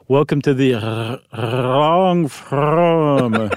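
gurgly underwater voice. Shown as a demonstration. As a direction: sound like you're talking underwater. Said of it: "sound like you're underwater".

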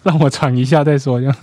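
winded after laughing; out of breath. Real, not acted. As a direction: talk while catching breath.

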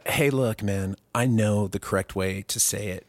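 quietly affected tone. Retold or imitated. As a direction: imitate an affected, superior corrector. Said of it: "sort of in an affected way".

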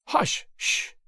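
high, sharp hushing; angry remonstrance. A narrator's reading. Opera audience scolding Sir Percy, angry shushing. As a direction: shush them in annoyance without raising the volume. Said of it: "came an angry remonstrance".

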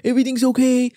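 weak stab at the president's voice; badly faked presidential impression; Donald Trump. Host re-enacting a cast member's impression, poor Trump impression. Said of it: "I can't do a very good Trump impression".

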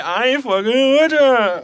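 slow drawled quote. Retold or imitated. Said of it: "That's what he told her".

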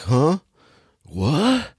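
lightly acted bewilderment; mock confusion. Retelling Keanu Reeves waking up on the ground, mock confusion.

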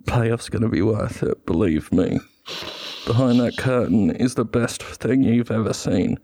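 a hint of Michael Caine vouching for the film; Michael Caine impression. Film voiceover promising the payoff, a light Michael Caine. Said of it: "Michael Caine".

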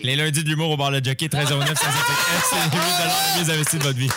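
ad announcer voice. Pretend. Mock radio ad.

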